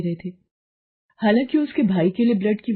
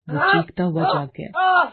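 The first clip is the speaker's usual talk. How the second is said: much higher, shouting the line; screamed narration; 12 semitones higher, 3 dB louder than usual. A narrator's reading. Narrator shouts how he woke screaming, much higher. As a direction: burst out as if waking in terror.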